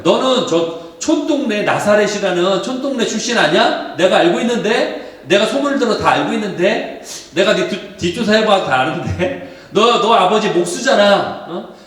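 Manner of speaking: preacher hamming up the scornful critics; mocking sneer. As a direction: scoff at him as a carpenter's son. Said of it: "유대인들이 핀잔하고 조롱하는".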